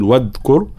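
"واذكر" with a cut-off d sound; wrong dhal. Shown as a demonstration. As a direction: stop the dh of "واذكر" short like d. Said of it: "فلا نقول". (واذكر بذال بلا رخاوة)

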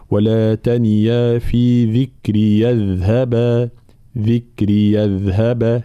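slow, drawn-out Quran recitation; measured tajweed demonstration; recitation in connected reading. Shown as a demonstration. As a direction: recite slowly, linking the words on a held even tone. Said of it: "هكذا حال الوصل".

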